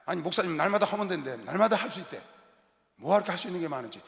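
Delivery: mock grumble. Mimicking a grumbling congregant.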